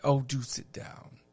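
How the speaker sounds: put-on lightly posed old-Hollywood British, gracious; a hint of trained MGM elocution offering a seat; faux British accent. Actress invites young guest to sit, light faux British. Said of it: "that sort of English accent".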